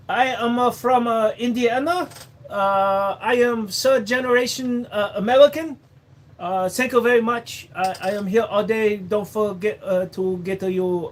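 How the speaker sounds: exaggerated comic Asian accent. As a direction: ham up a halting comic accent. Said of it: "piss you off with that accent".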